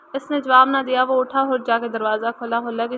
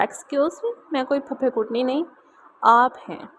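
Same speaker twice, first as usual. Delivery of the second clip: angry emphasis. Acted. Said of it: "वो गुस्से से ज़ोर देकर बोली".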